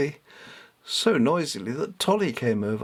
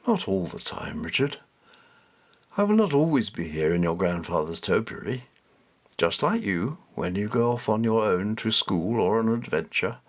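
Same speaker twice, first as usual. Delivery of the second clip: gentle, lower voice of a kindly cat; a lightly lowered, tender cat voice; softer, deeper cat; 3 semitones lower than usual. Acted. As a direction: speak softly and a little deep, like a wise cat. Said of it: "this was softer and deeper".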